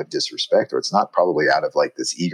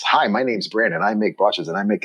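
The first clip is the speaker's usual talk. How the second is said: lightly higher, name-first friendly intro; American introduction; 3 semitones higher than usual. Retold or imitated. American maker introducing himself first, light and friendly. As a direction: lead with the name, breezily. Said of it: "we're kind of the reverse of that".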